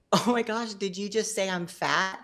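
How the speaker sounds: retelling her shocked reply to the counselor; indignant disbelief. Retold or imitated. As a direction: act scandalized at the insult.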